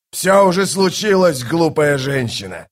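high, loud, scornful interruption; angry outburst. A narrator's reading. King snaps back at the goddess, angrily scornful.

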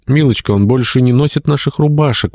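high-pitched matronly exclamation; exclaiming. A narrator's reading. Mother to daughter about the young man's finery, exclaiming. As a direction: exclaim it high, without much extra volume. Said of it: "воскликнула Матрона".

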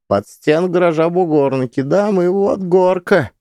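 high, bright chatty neighbour; lively woman sharing memories. Acted. Donnova recalls childhood.

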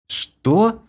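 high startled question; confused what. A narrator's reading. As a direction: blurt it out, bewildered. Kira's confused reply.

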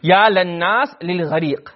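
slow beseeching call of "ya lannas lil ghariq"; appeal for help. Shown as a demonstration. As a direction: plead with the people to save the drowning man. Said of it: "let's just translate it first".

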